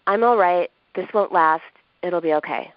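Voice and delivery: detached, cold reassurance with no warmth; flat cold tone. Shown as a demonstration. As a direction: say it flatly, like you don't believe it. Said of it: "kind of a flat, cold tone".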